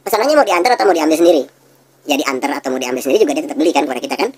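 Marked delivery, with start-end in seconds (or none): 0.0-1.4 friendly shop clerk offering a choice, higher; seller's question. Shown as a demonstration. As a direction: ask the customer lightly. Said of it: "contohnya kayak begini".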